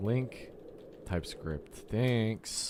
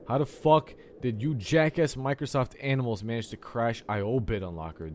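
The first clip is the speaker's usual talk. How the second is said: exasperated; 4 semitones higher, 3 dB louder than usual. Real, not acted. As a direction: spell out the outrage at the program. Repeats complaint with more force.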